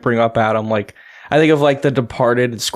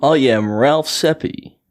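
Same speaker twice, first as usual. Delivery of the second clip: radio voice; slower than usual. Acted. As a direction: put on a radio host voice. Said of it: "This was my radio voice".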